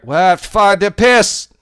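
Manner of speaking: loud high startled swearing; surprised outburst. Real, not acted. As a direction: blurt it out in shock. Outburst at stream delay.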